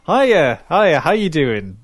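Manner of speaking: bright, loud, chirpy hello; cheery greeting. Retold or imitated. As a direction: greet like an overfriendly agent. Cheery phone chat quote.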